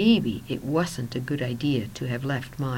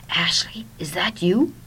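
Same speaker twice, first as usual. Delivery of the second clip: higher, rising question; tentative, rising "is that you?"; questioning phone answer; 4 semitones higher, 4 dB louder than usual. A narrator's reading. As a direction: ask as if unsure who is calling. Friend answers a phone call, unsure.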